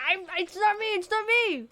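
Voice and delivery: high, pleading denial; mock defensive whine; protesting innocence. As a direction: plead your innocence in a rush. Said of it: "you were like".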